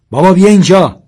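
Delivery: high, very loud call to father; shouted call. A narrator's reading. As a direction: yell urgently for your father. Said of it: "سیاوش داد زد". (فریاد بلند برای صدا کردن پدر)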